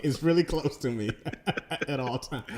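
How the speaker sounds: laughing through the words; amused laughing threat. Real, not acted. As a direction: chuckle while you say it.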